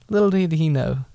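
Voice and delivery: Little did he know with a laugh; chuckling. Shown as a demonstration. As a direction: relish the irony, laughing.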